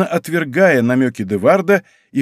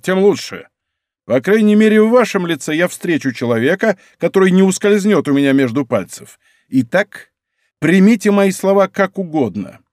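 higher, louder furious challenge; enraged shout; 5 semitones higher, 4 dB louder than usual. A narrator's reading. Dewardes, enraged, challenges Buckingham loudly. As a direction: hurl the challenge in a rage. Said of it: "крикнул взбешённый Девард".

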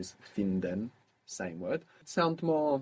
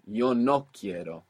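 Yo no quiero, spoken slowly; slow model. Shown as a demonstration.

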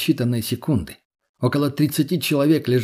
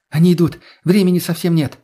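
loud, higher and pressing; urgent warning; 5 semitones higher, 6 dB louder than usual. A narrator's reading. Lena urgently warning the group the enemies are coming. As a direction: hurry them, danger is coming.

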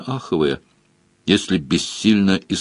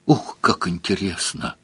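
suddenly cheerful. A narrator's reading. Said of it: "Голос Леверлина словно бы резко повеселел".

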